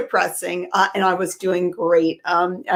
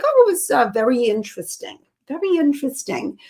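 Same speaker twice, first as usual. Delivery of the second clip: higher, hedging mom voice; polite evasive mother; 4 semitones higher than usual. Retold or imitated. Mother dodging the radio host's question about the jewelry art. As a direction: stall politely like an unimpressed mom.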